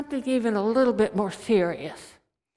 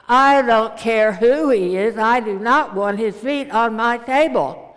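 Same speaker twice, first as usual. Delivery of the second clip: stern refusal; 6 dB louder than usual. Retold or imitated. Mother-in-law refuses, stands firm.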